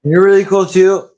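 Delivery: tipsy, trying to hold it together. Real, not acted. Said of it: "I'm really drunk right now".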